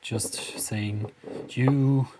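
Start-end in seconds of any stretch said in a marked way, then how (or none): 1.5-2.1 monster voice. Retold or imitated. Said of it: "our hit monster Vortex, just saying".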